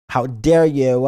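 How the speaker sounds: a hammed-up how dare you; loud mock indignation; mock outrage.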